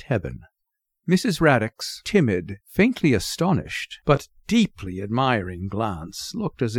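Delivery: measured, expressive literary storytelling; lilting short-story reading; story narration. A narrator's reading. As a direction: read the story aloud, lingering on key words. Reads the story aloud.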